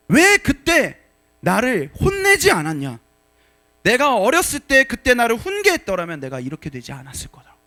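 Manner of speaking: loud, anguished cry of blame; crying shout. Retold or imitated. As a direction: shout it out as a condemned son blaming his mother. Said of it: "울면서 이렇게 외치는 거예요". (울부짖듯 외치며 원망하는 목소리)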